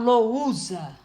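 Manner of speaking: "lousa" with the "u" said strongly as its own vowel; wrong pronunciation. Shown as a demonstration. Teacher showing students the wrong way, u too strong. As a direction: say "lousa" pushing force onto the "u". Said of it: "pra pronunciar o U com mais força".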